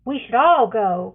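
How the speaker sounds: loud call to the group. A narrator's reading. A mother calls out to keep everyone together, loud. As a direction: call it out firmly. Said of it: "Cascara calls out".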